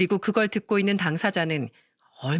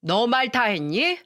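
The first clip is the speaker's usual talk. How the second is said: mother-in-law scolding, higher and rising in anger; furious older woman ordering her out; angry mother-in-law; 3 semitones higher than usual. Acted. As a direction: tear into her daughter-in-law, building to throwing her out. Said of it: "동서에게 마구마구 화를 내시더라고요".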